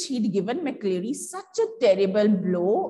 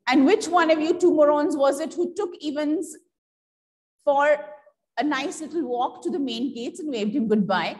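scathing contempt; 4 semitones higher than usual. Acted. Governor to his two officers, with scathing contempt. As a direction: sneer at the two officers without shouting. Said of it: "in its scathing contempt".

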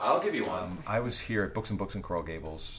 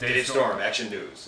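newscaster voice; 6 dB louder, slower than usual. Retold or imitated. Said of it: "just sounded like a newscaster".

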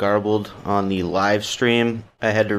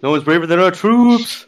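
patriotic announcer voice; 7 semitones higher, 5 dB louder than usual. Pretend. Parodying a patriotic slogan.

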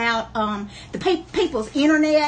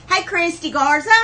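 bright, loud greeting; calling out loud; 4 semitones higher than usual. Real, not acted. Greeting a viewer on her live auction, called out loud. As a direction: call the name out across the room. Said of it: "there I go again screaming".

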